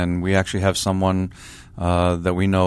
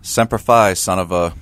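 sudden mock shout; 5 dB louder than usual. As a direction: jolt up from the bed and blurt it out. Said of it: "he shot up in bed and said".

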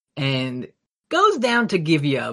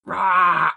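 monster roar; 3 semitones higher, 3 dB louder than usual. Retold or imitated. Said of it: "It was roaring and stampeding".

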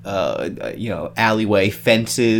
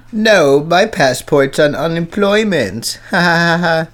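mock laugh; 5 semitones higher, 4 dB louder than usual. Joking mock reply with fake laugh.

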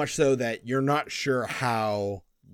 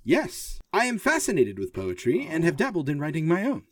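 higher earnest machine voice; earnest robot; 5 semitones higher than usual. Acted. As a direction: sound like an eager android. Forge character speaks.

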